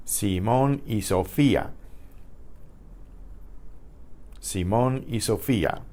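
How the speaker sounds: Simón y Sofía, stressed on MON and FEE; see-MON ee so-FEE-ah for Simón y Sofía; Spanish pronunciation demo. Shown as a demonstration. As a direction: model Simón y Sofía evenly for learners. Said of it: "practice the pronunciations".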